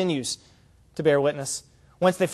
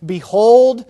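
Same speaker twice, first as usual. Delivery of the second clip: ringing, much louder announcement; loud proclamation; 3 semitones higher, 11 dB louder than usual. Acted. John the Baptist sees Jesus coming, loud proclamation.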